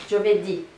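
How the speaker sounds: Giovedì with the accent on the last I; stress on final I. Shown as a demonstration. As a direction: land on the DÌ of Giovedì. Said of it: "sur le I à la fin".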